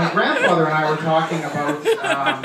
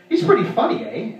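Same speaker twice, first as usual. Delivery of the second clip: mock buddy; 4 semitones higher than usual. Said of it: "he puts his arm around me and he goes".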